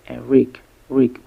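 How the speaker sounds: "rick" with the short vowel of ship. Shown as a demonstration. Teacher sounding out euphoric's last syllable, "rick" with short vowel. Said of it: "a short E sound like in ship".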